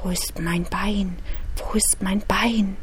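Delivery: low, hushed, deep ghost voice; extremely deep bass voice. Acted. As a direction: sink the voice down, quiet and dark. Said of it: "Wieder mit tiefer Stimme".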